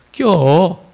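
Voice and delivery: indulge your darling sweetly; sweetly obliging. Acted. Seoul boyfriend granting his girlfriend's request, sweetly. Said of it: "서울 남자는 상냥하게".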